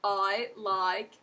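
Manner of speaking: Australian vowels, slow on the last phrase; Australian accent demo. Shown as a demonstration. Teacher demonstrating Australian vowels to learners in an Australian accent. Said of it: "See? And I just included all of the vowels".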